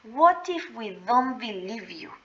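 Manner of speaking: whispered menacing question; big guy whispers a threat to the scared boy; really quiet. Retold or imitated. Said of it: "really quiet like".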